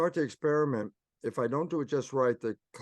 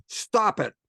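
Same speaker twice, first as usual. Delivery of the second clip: Newhart stop; 9 semitones higher, 6 dB louder than usual. Retold or imitated. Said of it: "he would just look at me and say".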